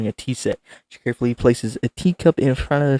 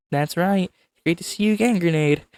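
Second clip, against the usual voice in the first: Monika voice; 7 semitones higher than usual. Acted. Voicing Monika, higher.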